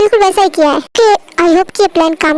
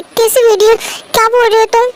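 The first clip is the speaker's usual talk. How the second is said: panicked questioning; 4 semitones higher than usual. Acted. Wife threatened by intruder.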